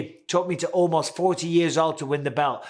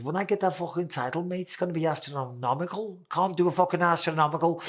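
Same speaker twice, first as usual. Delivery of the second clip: a friendly Scouse impression of his mate Darren Till; Darren Till accent; 2 semitones higher than usual. Doing Darren Till's Scouse accent about winning the title. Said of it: "we'll do a Darren Till accent".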